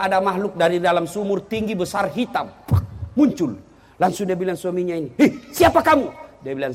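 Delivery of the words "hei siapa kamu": loud, high startled call; startled shout. Acted. Husband in the well calling out to the jinn, startled loud shout. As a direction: call out in alarm.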